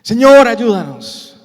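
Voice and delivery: loud, slow cry for help; acted pleading prayer; praying aloud. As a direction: cry out to the Lord, stretching the words. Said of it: "Y oramos".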